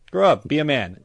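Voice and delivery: "Grow up." pitched high and loud; exasperated shout. Acted. Scolding grown men who call themselves Lil, an exasperated shouted "Grow up.". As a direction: bark "Grow up." at him, fed up.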